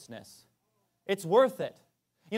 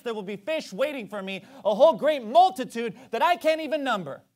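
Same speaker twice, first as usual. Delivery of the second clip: raised, louder on "Nevertheless, at thy word"; vow to God; 3 semitones higher, 5 dB louder than usual. Pretend. Parent vowing to God, raised then dropping. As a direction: declare it like an oath.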